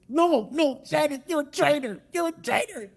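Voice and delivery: high, loud mock pundit crying betrayal; hammed-up wounded sports host; Shannon Sharpe impression. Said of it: "my terrible Shannon Sharpe impression".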